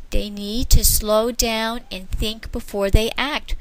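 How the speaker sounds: slow gentle explanation. Acted. Grandmother gently explaining to children. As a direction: soothe the children. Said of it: "gently explained".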